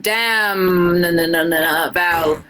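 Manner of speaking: put-on a shaky try at an Irish accent, drifting British; reading fan fiction aloud in a so-so Irish lilt; attempted Irish accent. Streamer reading fan fiction to chat, in a struggling Irish accent. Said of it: "Liz is trying her best to do an Irish accent".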